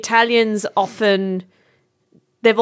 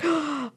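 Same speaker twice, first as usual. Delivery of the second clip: soft, high intake of breath; hushed theatrical gasp; mock gasp; 5 semitones higher, 10 dB quieter than usual. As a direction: imitate an aunties' gasp of surprise. Zias react to hearing of boyfriend.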